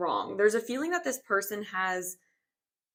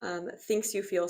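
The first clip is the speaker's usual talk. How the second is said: slightly out of breath from stretching. Real, not acted. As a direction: talk while still catching your breath. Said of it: "Sorry if I'm out of breath".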